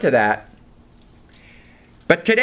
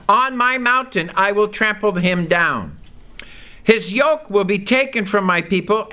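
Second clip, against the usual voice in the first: a slightly raised, measured Bible reading; scripture reading. Acted. Preacher reading Jeremiah to the congregation, measured and raised. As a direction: read the verse out to the congregation.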